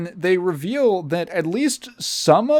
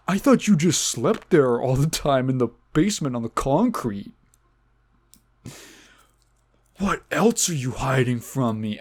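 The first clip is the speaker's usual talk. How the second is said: mock betrayed Pet Store Guy; 2 semitones lower than usual. Pet store guy confronting his friend, mock hurt and accusing. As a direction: play the jilted friend catching a lie. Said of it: "And Pet Store Guy's like".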